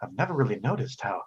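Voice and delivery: a touch of swooning admiration, pitch swooping on his name; hesitant, flirty lady, lightly played; lightly voiced Madame Prose. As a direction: act mildly smitten, with halting pauses. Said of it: "and she goes".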